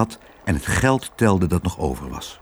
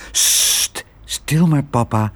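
soothing hush; 4 semitones higher, slower than usual. Acted. Girl hushes her angry father.

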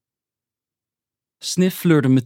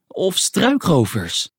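high, slow, drawn-out squeak; squeaky Snif; 7 semitones higher, slower than usual. A narrator's reading. Snif fears bandits in the bushes, high squeaky voice. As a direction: pipe it up, stretching the dreaded word. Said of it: "piepte hij".

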